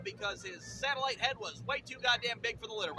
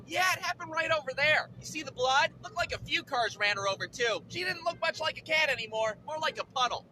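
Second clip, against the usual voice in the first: lightly put-on higher lady voice; neighbor lady; 5 semitones higher than usual. Neighbor describing the accident, lightly voiced lady. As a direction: report it as the neighbor, voice lifted. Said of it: "the neighbor lady comes up to me".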